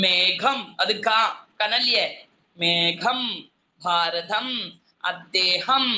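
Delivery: മേഘം, ഭാരതം, അദ്ദേഹം with weighty aspirated consonants; heavy consonants. Shown as a demonstration. Teacher listing example words for the class with heavy aspiration. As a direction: give each word its heavy consonant, one by one. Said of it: "കനം വരുത്തി പറയുന്ന കുറച്ച് കട്ടിയില്".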